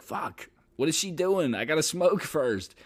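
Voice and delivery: high, startled inner voice; surprised panic. Retold or imitated. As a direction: caught off guard, she's early. Panics seeing date arrive early.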